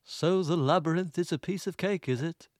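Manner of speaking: lightly acted taunting villain; a hint of theatrical villain; Jareth. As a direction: deliver a measured, mock-menacing challenge. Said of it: "another Jareth line".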